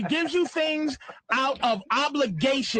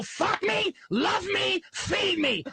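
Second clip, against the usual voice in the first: mock needy voice; 7 semitones higher, slower than usual. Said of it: "You just go".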